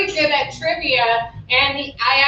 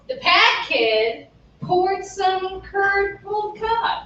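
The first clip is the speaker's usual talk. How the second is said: slower, joined phrase; 4 semitones higher, slower than usual. Shown as a demonstration. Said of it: "slowed down".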